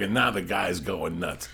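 ordinary talk, nothing marked

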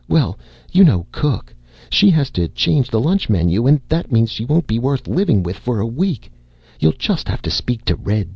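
a hint of a worried wife pleading; lightly voiced fretting wife. Wife urging her husband to speak to Red, lightly voiced and fretful.

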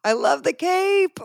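high, drawn-out delight; gushing. Real, not acted. Host reacting to a guest's hometown, gushing with delight.

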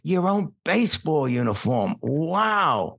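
mock wide-eyed wonder with a drawn-out wow; imitated awed kids. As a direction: marvel like an impressed first grader. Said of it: "the kids loved it".

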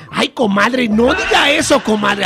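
high, loud, laughing protest; excited teasing shout. Acted. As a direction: squeal at her friend's cheek. Teasing friend about dirty talk. (chillido pícaro y alto)

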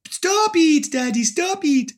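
very high Costa Rican street dog; Lala. Acted. Dog scolding Daddy, high Costa Rican accent. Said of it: "So she talks like these".

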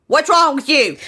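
high, hammed-up accusing outburst; mock confrontation. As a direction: throw it out like an acted accusation. Acting out Jeff confronting his partner.

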